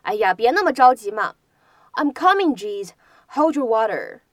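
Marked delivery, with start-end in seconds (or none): 1.9-4.2 exasperated I'm coming, jeez; teacher acting out impatience; irritated reply. Shown as a demonstration. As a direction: huff it out, annoyed at being rushed. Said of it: "我来了，来了".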